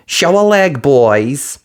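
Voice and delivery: high brisk fairy voice; quick and businesslike; fiery fairy. A narrator's reading. Fiery fairy asking Cinderella for mice, brisk.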